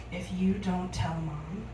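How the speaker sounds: low, hushed offer; retold confidential bribe, dropped in pitch; secretive bargaining. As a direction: lean in and softly cut a deal. Sister leans over to bargain secretly.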